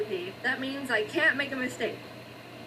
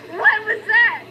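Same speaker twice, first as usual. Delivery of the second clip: loud high shocked cry; 10 semitones higher, 10 dB louder, slower than usual. Real, not acted. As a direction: blurt it in disbelief. Pie burns in oven.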